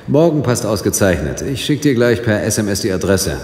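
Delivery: lauter, höher am Telefon; laut ins Telefon. Acted. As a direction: gegen die Leitung anreden. Ends the phone call. (Robin ruft Nick laut am Telefon an)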